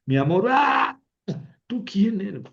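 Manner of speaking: high startled gasp, then the question whispered. Acted. Jacob waking beside Lea, a startled gasp then a whisper. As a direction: wake up and find the wrong bride beside you.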